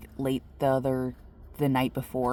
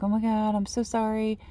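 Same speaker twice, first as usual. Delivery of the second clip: put-on higher, flustered old lady apology; startled apology; 7 semitones higher than usual. Old lady realizing she woke the wrong person, startled. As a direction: gasp it out, caught off guard. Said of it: "her eyes got, like, really big".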